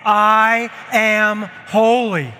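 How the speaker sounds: slow, loud declaration; proclaimed. Shown as a demonstration. Pastor leading church in loud declaration. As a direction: lead them, say it big.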